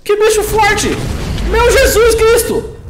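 very high, loud panicked shrieks; high-pitched yelling in a fright; startled screaming. Real, not acted. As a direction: shriek in real alarm at a monster. Startled by a strong monster.

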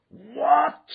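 high, loud startled roar; roaring what. Acted. Holmes roaring in shock at news of the letter. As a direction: shout it out in shock. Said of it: "he roared".

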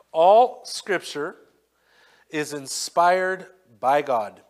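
solemn scripture read. Acted. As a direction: lay out each phrase with weight. Reads scripture aloud.

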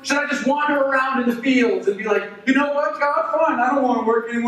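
high, mocking and bitter; sarcastic rant. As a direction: sneer at the idea of herding.

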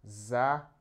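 "заправку" broken into separate sounds, za - p - ra - v - ku; "заправку" spelled out sound by sound for writing. Shown as a demonstration. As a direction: dictate "заправку" piece by piece with long gaps. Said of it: "you can also write here".

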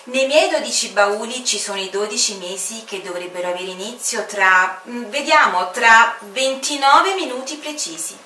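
lightly voiced whimsical Time; playful Father Time. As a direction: muse aloud, checking the minutes. Time explains his trunks.

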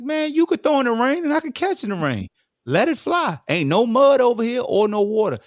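high-pitched, loud pleading boast; retold excited urging. Receiver urging quarterback to throw in the rain, excited high call.

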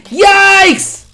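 high, drawn-out storybook yelp; startled yelp. A narrator's reading. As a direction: yelp at the chasing monster. Ape is seen swimming after them.

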